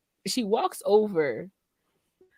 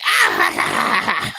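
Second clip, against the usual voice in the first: evil laugh; 6 dB louder than usual. Retold or imitated. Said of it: "I'm just evil laughing".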